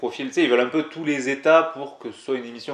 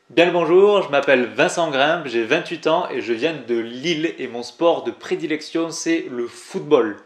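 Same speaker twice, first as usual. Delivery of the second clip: hammed-up TV intro; 3 semitones higher, 3 dB louder than usual. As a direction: overplay a cheesy TV introduction, slowing on the last words. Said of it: "talent d'acteur, attention".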